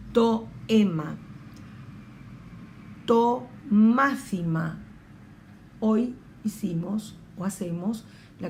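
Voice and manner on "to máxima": To máxima slow, x like Spanish z; drawn out To máxima; modelled Greek word. Shown as a demonstration. Teacher modelling word for class, slow. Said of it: "teacher models Greek word".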